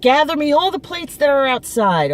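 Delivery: calling out an order as the mother; mother's order. Retold or imitated.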